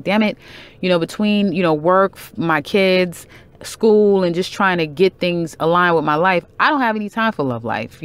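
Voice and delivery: a light imitation of a stressed parent; mock overwhelmed complaint. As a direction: sound swamped and fed up. Quoting overwhelmed busy person.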